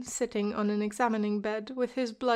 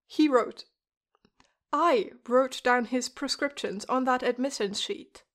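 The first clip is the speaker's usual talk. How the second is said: sharp, louder snap at the nurse; snapping; 2 semitones higher, 5 dB louder than usual. Acted. Huck snaps at the nurse over the prescriptions, sharp and louder. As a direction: bite the words off, losing patience. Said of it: "Huck snaps".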